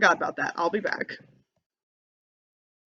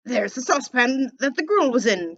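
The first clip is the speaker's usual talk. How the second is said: excited cry; 4 semitones higher than usual. Acted. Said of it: "cried Scrooge".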